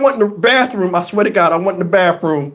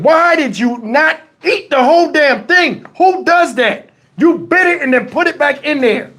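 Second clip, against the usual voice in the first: higher-pitched, incredulous telling-off; exasperated scolding; 5 semitones higher than usual. Retold or imitated. Man scolding whoever bit his muffin, exasperated.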